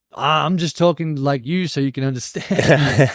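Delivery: slow it down as if for slow listeners; slow talking. Retold or imitated. Brother answers stepsister who called him slow, mock-slow. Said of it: "You sound like you're talking really slow".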